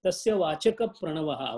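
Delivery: "Vachaka" closed with a p into "Pranavaha"; model pronunciation. Shown as a demonstration. Teacher correcting a student's verse, "Vachaka" linked as vachakap to "Pranavaha". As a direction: say "Vachaka" as vachakap, leaning into the Pra. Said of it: "see how it goes".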